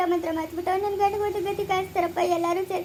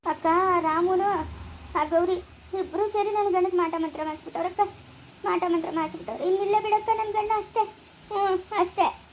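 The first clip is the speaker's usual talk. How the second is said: softer, breaking into tears; tearful despair; 3 dB quieter than usual. Acted. Wife tells her sister her husband is gone, crying softly. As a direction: let it sink into sobbing.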